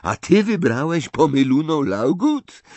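disbelief rising into the question; mildly astonished; incredulous. A narrator's reading. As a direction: stress the first word, then question in amazement. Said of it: "dziwił się Ron".

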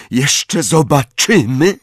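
slow, high, strained with hatred; panted threat. A narrator's reading. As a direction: pant it out hatefully. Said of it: "wydyszał, patrząc na Jamesa z nienawiścią".

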